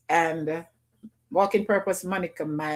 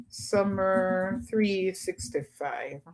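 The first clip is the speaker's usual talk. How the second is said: drawn out slowly and quietly, word by word; typing the name while saying it slowly; slow, soft spelling-out; 5 dB quieter, much slower than usual. Shown as a demonstration. Typing the channel name for viewers, slowly and softly. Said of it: "I'm gonna join it together because of the numbers".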